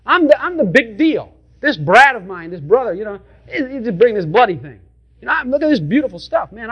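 lightly voiced boastful older brother; a hint of a smug show-off offering his gift; proud Cain. Preacher voicing proud Cain boasting to God, mildly smug. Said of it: "He was coming saying".

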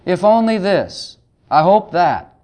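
mildly moaning, wishful complainer; lightly acted wistful grumble; mock complaining. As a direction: imitate someone groaning over what they lack. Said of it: "moan or groan and say".

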